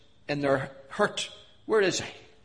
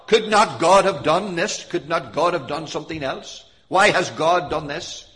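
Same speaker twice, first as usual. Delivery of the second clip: critical voice; 2 semitones higher, 5 dB louder than usual. Acted. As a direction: mimic people blaming God, pressing each question. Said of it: "here we have a critical voice".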